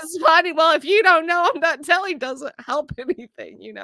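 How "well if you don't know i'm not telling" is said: mock pout. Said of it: "when we get mad at our husbands".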